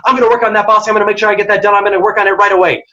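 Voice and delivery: fast eager reply. Shown as a demonstration. Employee answering a fast-talking boss, quick and eager. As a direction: rattle it off fast and keen, pitch up. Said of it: "someone's talking really quickly and you're saying".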